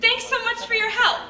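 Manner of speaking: high, loud, exaggerated perky email voice; mock exclamation-point cheer. Mocking emails to Joe full of exclamation points, mock cheer. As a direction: gush it like every word has an exclamation point. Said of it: "every sentence doesn't end in an exclamation point".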